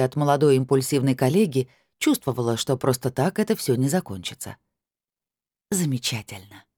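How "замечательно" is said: softer, smiled barely through the lips; lips-only smile. A narrator's reading. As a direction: breathe it out with a thin smile. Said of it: "одними губами улыбнулась я".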